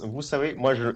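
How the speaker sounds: lightly done Louis de Funès impression, greedy and blustering; a hint of a spluttering de Funès; mild mock de Funès rant. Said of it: "en mode Louis de Funès".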